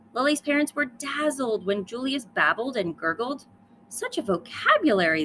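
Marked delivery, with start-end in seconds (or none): 3.9-5.2 exclaiming. Acted. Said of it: "they exclaimed".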